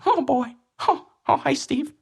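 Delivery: high squeaky Irish leprechaun; Irish leprechaun accent. Pretend. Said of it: "That was your Irish accent".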